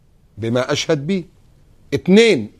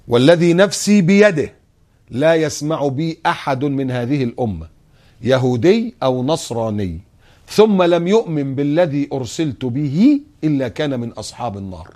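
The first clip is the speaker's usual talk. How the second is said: emphatic hadith recitation; 2 semitones higher, slower than usual. Acted. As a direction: declaim the hadith, then let the last words drop. (تلاوة قوية للحديث ثم خفوت في آخره)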